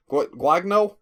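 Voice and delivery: halting attempt at "Guagno", as a question; unsure pronunciation. Real, not acted. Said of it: "I don't know how it's said".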